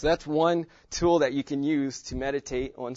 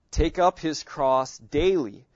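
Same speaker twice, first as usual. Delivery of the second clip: up leaned on, slow and louder; stress on up; 5 dB louder, slower than usual. Shown as a demonstration. Teacher stressing take up for the class. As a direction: hit up, draw out daily. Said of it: "I'm emphasizing different words".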